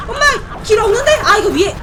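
alarmed, loud and hurried; panicking at a dead end; scared horror game streamer. Real, not acted. Trapped, monster near. (당황한 외침)

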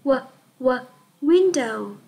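"W, w, window" built up from the first sound. Shown as a demonstration. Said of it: "chúng ta cùng đọc nào". (đánh vần "W, w, window" từ âm đầu)

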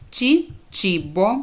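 «чі», then «чібо», both opening on ch; «чі», «чібо» said apart with a clear ch; ch examples. Shown as a demonstration. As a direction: model «чі» alone, then the whole word «чібо». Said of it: "Коли вона читається як буква".

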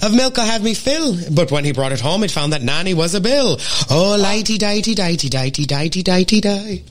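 lilting Irish limerick recital; Irish accent. Shown as a demonstration. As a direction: recite it in a sing-song Irish lilt. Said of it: "I will do a short Irish one".

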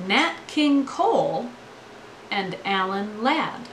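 creaky tired voice; vocal fry. Real, not acted. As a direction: let the voice crackle into fry. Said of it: "I don't like having vocal fry".

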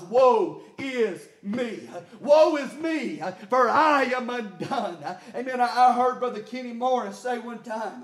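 rhythmic preaching cadence with gasped breaks; driven preaching. Real, not acted. Preacher to his church on seeing God, driven preaching. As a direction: preach it hard, punching out each phrase.

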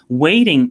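"waiting" drawn out slowly with weight; stress on waiting. Real, not acted. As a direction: lean on the word "waiting", stretching it. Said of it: "I do emphasize the word waiting".

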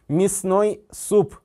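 мясной said as misnój, stress on о; reduced я in мясной. Shown as a demonstration. Teacher showing students how мясной sounds. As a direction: say мясной with и, not я. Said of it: "오로 강세가 갑니다".

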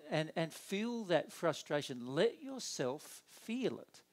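ordinary talk, nothing marked

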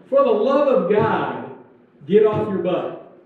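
slow exhortation, leaning hard on each phrase; exasperated plea. Retold or imitated. Preacher voicing Paul's blunt order to the lazy, exasperated. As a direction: urge them emphatically, as if fed up. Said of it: "That's what he's saying".

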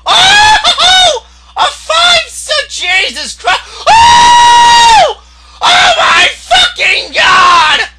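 high, loud, hysterical yelling; frantic screaming. Real, not acted. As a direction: scream in overwhelmed disbelief, stretching the words. Screaming at a big game moment.

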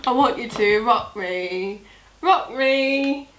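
a hint of a slow lounge singer; Marcus Butler impression. Asked to repeat it, crooning it slowly again. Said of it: "Do it again".

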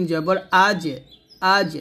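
আজ ending in a bouncing, released j; echoing qalqala jim. Shown as a demonstration. Teacher drilling learners on jim, slow with an echoing stop. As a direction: spell slowly, then bounce the final j of আজ. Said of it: "জিমটা কলকলা করতে হবে".

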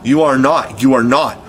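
hoarse cry. A narrator's reading. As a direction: rasp it out in denial. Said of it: "Hook cried hoarsely".

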